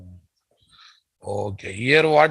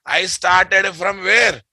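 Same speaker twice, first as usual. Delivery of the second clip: raised, slow quizzing shout; 4 semitones higher, slower than usual. Real, not acted. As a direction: call it out slowly to the class. Teacher quizzing the class.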